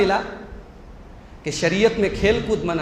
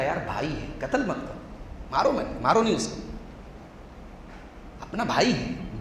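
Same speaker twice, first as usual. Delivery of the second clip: softer pleading voice; gentle brother; 3 semitones lower, 9 dB quieter than usual. Retold or imitated. The kind brother softly begs the others not to kill. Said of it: "एक भाई थोड़ा शरीफ था".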